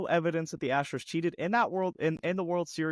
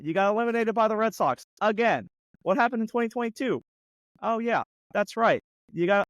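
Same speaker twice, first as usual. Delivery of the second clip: taunting; 2 semitones higher, 4 dB louder than usual. Real, not acted. Mocking Yankees year by year.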